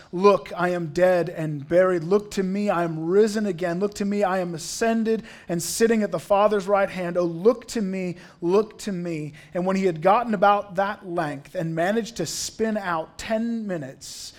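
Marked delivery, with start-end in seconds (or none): 0.1-9.3 lightly acted pulpit plea; insistent preacher's refrain, a little raised; urgent lay preacher. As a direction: press each appeal on the congregation. Acted preacher repeats urgent appeal.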